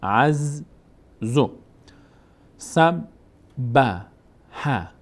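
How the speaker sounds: اعزو stretched, the doubled z held long; very slow demo. Shown as a demonstration. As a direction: drawl اعزو out for the pupils. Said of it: "با ضمهٔ خودش". («اعزو» بسیار کشیده و آهسته)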